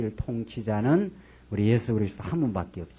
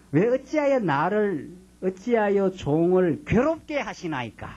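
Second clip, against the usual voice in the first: higher, slow, whining plea; Moses complaining; 6 semitones higher, slower than usual. Retold or imitated. Pastor voicing Moses griping to God, mock whining plea. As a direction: plead like a worn-out leader. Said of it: "그 모세도 지금 그러죠".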